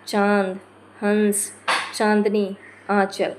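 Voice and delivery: चांद, हंस, चांदनी, आंचल with nasal vowels; nasalized vowels. Shown as a demonstration. Teacher listing nasal examples, vowels nasalized. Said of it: "नाक से भी निकले तो अनुनासिक".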